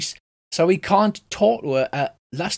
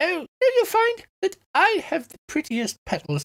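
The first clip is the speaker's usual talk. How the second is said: very high, tiny, squeaky voice; 12 semitones higher than usual. Narrating a game to players, voicing a talking flower, small squeaky voice. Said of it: "a small squeaky voice".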